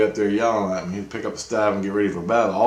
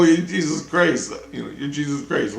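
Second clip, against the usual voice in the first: protesting; 6 semitones higher than usual. Retold or imitated. Retold protest.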